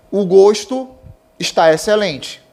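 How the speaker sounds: closed o in gosto; gosto said with closed vowel, gôsto; gosto as noun. Shown as a demonstration. Teacher reading noun example, gosto with closed o. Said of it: "O gosto é substantivo".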